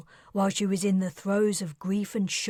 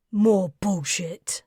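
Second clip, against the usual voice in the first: uncertain scoff; 5 dB louder than usual. Acted. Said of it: "his tone was uncertain".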